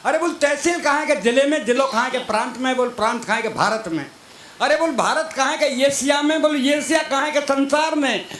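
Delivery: retelling the wife's dodging answers; escalating back-and-forth. Retold or imitated. Escalating nagging wife-husband chain.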